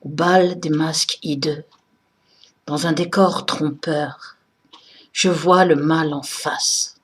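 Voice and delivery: slow, solemn recital with deliberate phrasing; poem recitation. Acted. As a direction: recite the verses slowly and emphatically, pausing after each phrase. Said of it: "que je vais vous réciter de mémoire".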